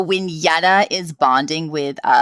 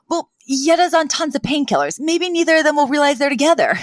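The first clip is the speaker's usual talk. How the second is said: imitating Fran; 10 semitones higher than usual. Voicing Fran's hopeful idea.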